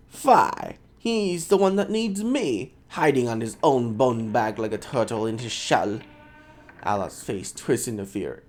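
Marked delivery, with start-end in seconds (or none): 0.1-6.0 put-on Scottish accent. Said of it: "I can't do a fucking Scottish voice".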